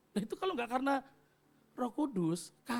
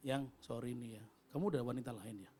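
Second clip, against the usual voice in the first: mock worried whisper; 12 semitones lower, 9 dB quieter than usual. Worried wife asks quietly.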